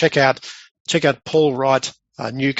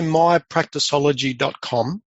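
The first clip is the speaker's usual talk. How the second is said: slowly spelling out a web address; slow dictation; slower than usual. Real, not acted. Guest giving listeners his website, slow and deliberate. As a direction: give the URL slowly so they can write it down.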